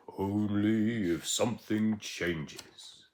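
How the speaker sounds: slow, solemn answer; lightly ominous, slowly; grave reply. Acted.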